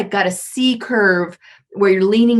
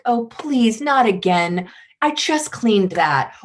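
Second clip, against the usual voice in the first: pleading beggar; 3 semitones higher, slower than usual. Retold or imitated. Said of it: "One would be the beggar".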